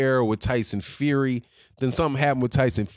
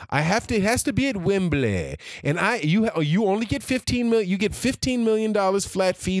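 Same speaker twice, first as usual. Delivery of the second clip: higher-pitched, demanding mock of a spoiled champion; mocking a prima donna; 4 semitones higher than usual. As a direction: sneer out each demand like a diva. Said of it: "because of his prima donna-ness".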